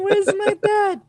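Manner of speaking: put-on very high squeaky baby creature; tiny cute monster voice, slow; baby owlbear voice. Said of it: "my baby owlbear voice".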